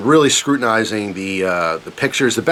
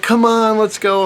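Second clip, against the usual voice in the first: much higher panicked hurry-up; impatient urging; 12 semitones higher, slower than usual. Retold or imitated. Son hurrying his slow dad ashore, high frantic urging. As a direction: rush him, frantic and impatient. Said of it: "I'm like".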